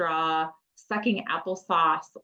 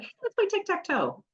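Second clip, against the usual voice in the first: put-on high, light sing-out to a child; playful invitation; 13 semitones higher than usual. Adult inviting an overwhelmed older kid to play, playful. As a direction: lure them into a game, pitched way up.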